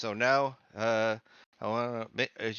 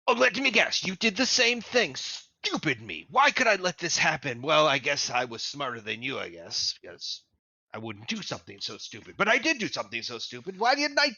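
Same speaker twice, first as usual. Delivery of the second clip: rambling sage; faster than usual. Acted. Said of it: "He's just rambling on and on".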